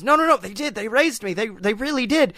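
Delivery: high, pleading protest; imitating a cornered liar; panicked denial. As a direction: beg them to believe the lie. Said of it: "And Seth goes".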